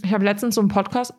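talking with milk foam in mouth; mouth full. Real, not acted. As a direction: speak through a mouthful of foam. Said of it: "Jetzt hab ich Milchschaum im Mund". (mit Milchschaum im Mund)

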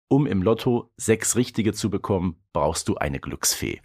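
normal talking voice

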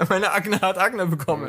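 squeaky high parody of a vain youtuber; mock whiny influencer. Friends riffing on a youtuber, squeaky mock whine. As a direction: pitch it up and whine like a spoiled influencer.

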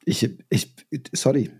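hoarse, coughing fit; clearing a sore throat. Real, not acted. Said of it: "Komm, huste dich aus".

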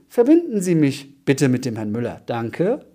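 unsure rising tune on danke; rising, like a question. Shown as a demonstration. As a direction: ask it like a question, voice going up on danke. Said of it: "dann ist das wie eine Frage". (danke fragend mit steigender Stimme)

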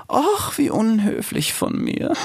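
high, drawn-out mock apology; slow it down, voice way up; hyena. A narrator's reading. Hyena excuses herself to the fox, high languid voice.

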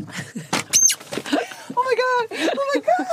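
hammed-up shriek of astonishment; mock surprised squeal. Spielt Überraschung nach, Quizspiel. (übertrieben hohes, gedehntes Kreischen vor Staunen)

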